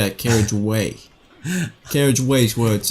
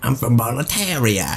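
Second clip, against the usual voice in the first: put-on, faux Australian accent. Greeting the Governor in an Australian accent. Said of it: "my Australian accent is obviously really good".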